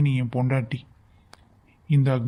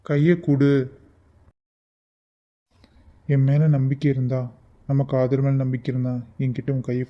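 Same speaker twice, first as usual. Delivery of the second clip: firm demand. Acted. Lover insists she give hand.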